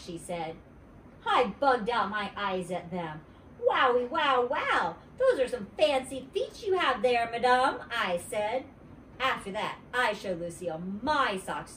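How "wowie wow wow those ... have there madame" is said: high and loud wowie wow; overdone little-girl flattery; mock-gushing kid. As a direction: lay on the fake admiration. Junie B. gushing over socks.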